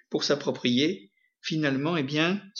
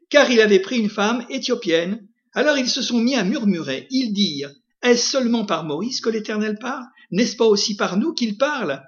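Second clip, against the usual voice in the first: raised-pitch Bible reading voice; scripture reading; 4 semitones higher than usual. Acted. Preacher reads Moses' story to the congregation, scripture reading. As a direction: read the verses out to the congregation.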